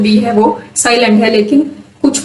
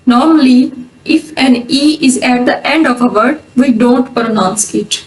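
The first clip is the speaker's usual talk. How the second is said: slow, deliberate English rule read; dictating a rule to students; much slower than usual. Acted. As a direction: read the rule out carefully and slowly. Reads rule slowly in English.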